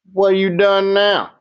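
a mildly voiced old woman teasing a visitor. A narrator's reading. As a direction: speak up high and sharp as a tiny tough old woman. Old woman demands an answer.

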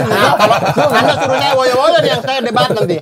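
1 laughing retort. Real, not acted. Laughing retort about woyo.

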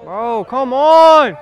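slow, exasperated "come on"; drawn-out. Real, not acted. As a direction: stretch it out in frustration. Exasperated at teammate.

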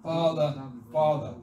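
loud, emphatic repeated call; fervent pulpit cry. Acted. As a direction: cry out to God, punching each word. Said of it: "The Spirit in us cries".

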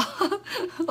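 a quiet, high giggle; soft high laugh. Real, not acted. Laughing mid-sentence.

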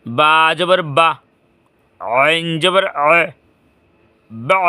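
each syllable drawn out slowly for the class; slow, careful demo of বা জবর বা; slow spelling demo. Shown as a demonstration. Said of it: "দেখো সবাই".

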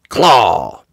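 a firm, falling call; mild story shout. Acted. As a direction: call out the command, only lightly shouted. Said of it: "shouted Rex".

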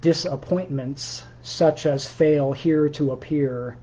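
slow, measured poem recital; poetry reading. Acted. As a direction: read it like a poem, each word weighed. Reads his own poem aloud.

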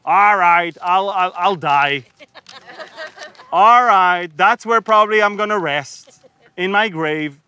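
mock-sarcastic grumble, dragging out all right. Israelites sarcastically grumbling at Moses, mock-sarcastic. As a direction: sneer it like a sulky crowd. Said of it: "it's sort of like sarcasm".

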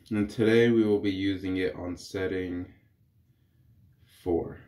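congested. Real, not acted. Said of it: "If I sound a little congested".

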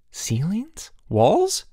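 high, sharply rising questions; incredulous. A narrator's reading. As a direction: query each item in disbelief. Amazed boy questions what gets washed.

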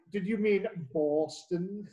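slowly over-pronounce Boston as "Bawston"; teasing correction. Acted. Host correcting a co-host's Boston, teasing and exaggerated.

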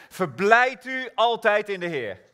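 bright joyful proclaiming; joyful exclamation. Acted. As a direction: rejoice out loud. Quoting Philippians joyfully.

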